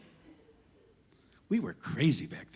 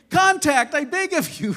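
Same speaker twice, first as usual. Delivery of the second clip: mock pleading; 12 semitones higher, 8 dB louder than usual. Joking plea for human contact.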